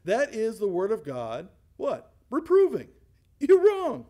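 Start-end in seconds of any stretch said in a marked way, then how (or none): 2.3-4.0 high, loud punched declaration; emphatic shout. Real, not acted. Preacher proclaiming what reproving means, loud shout. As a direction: ring it out to the back row.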